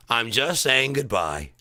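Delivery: slow, drawn-out goodbye; slow goodbye demo. Shown as a demonstration. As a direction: spell out the goodbye gently. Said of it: "this is how we all say goodbye now".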